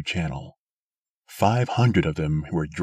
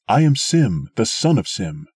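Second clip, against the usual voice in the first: loud declaration; 5 semitones higher, 6 dB louder than usual. A narrator's reading. Answering the challenge.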